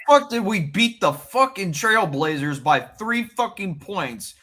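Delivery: loud, high-pitched outburst; exasperated fan rant. Real, not acted. Fan venting about the Bulls to friends, exasperated. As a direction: vent in disbelief, pitch jumping up.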